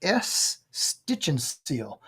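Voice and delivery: slow repeated bingo call; bingo caller. Shown as a demonstration. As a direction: draw out each word of the call. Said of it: "make the second call".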